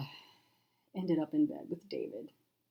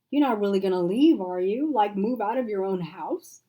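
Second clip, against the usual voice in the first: alarmed; 4 semitones higher, 6 dB louder than usual. Acted. Alarmed questions.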